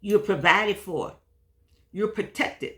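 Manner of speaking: talking around a mouthful; words round a bite of food; mouth full. Real, not acted. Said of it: "I had something in my mouth".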